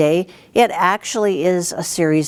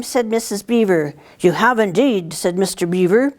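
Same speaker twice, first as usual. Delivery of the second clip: storybook reading; 3 semitones higher than usual. A narrator's reading. Teacher reads picture book aloud.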